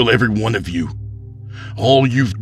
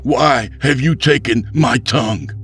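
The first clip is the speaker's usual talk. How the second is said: high, raised voice of indignation; loud, impassioned demand in a raised pitch; loud, carrying accusation; 13 semitones higher, 4 dB louder than usual. A narrator's reading. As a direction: project to the whole crowd. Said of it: "loud enough for all to hear".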